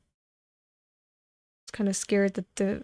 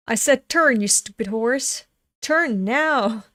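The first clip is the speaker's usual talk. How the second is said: angry at the horse; 2 semitones higher, 4 dB louder than usual. Acted. Rider angrily yelling at a stubborn horse to turn.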